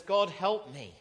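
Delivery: put-on a bullied boy crying out to his father; urgent plea. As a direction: beg God for help, scared. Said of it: "runs straight to God and says".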